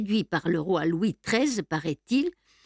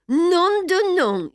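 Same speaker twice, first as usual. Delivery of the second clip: higher, louder, drawn-out cry; howled curse; 10 semitones higher, 5 dB louder, slower than usual. A narrator's reading. Beautrelet finds the pages gone, howled curse. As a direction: howl the oath, stretching it out. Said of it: "hurla Beautrelet".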